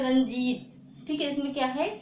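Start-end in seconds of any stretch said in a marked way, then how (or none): 0.0-0.7 रंजीत said fast in one go; quick demo. Shown as a demonstration. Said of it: "तेजी से बोलते हैं".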